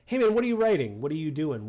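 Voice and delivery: a hint of the chatty friend; imitating Paddock. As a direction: lightly play the nosy friend. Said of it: "of like".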